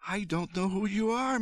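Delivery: high, contained storyteller's shout. A narrator's reading. Mother shouting at a stranger in her kitchen, high. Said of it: "my mother shouted".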